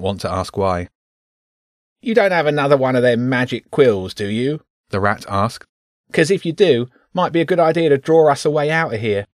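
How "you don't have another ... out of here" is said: high, squeaky rat voice; a cheeky little rat, pitched up. Acted. Rat character voice.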